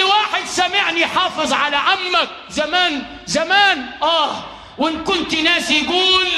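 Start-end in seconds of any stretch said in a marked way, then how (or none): none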